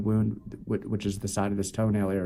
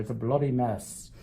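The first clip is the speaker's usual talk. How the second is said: put-on playful English accent; lightly put-on English accent for the fans; 2 semitones higher than usual. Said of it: "I said that with an English accent".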